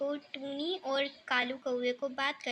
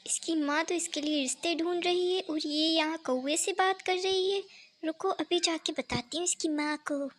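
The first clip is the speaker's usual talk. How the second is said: lightly voiced busybody aunt, a touch louder; gossiping aunt, scandalised; 2 semitones higher, 4 dB louder than usual. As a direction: react as a nosy aunt who caught them out.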